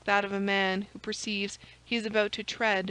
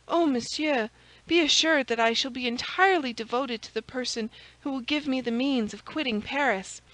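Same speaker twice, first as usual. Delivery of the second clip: put-on higher, earnest servant girl's voice; grateful maid; 4 semitones higher than usual. Maid promising devotion to Aramis, higher and grateful. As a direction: pledge devotion in a higher, eager voice.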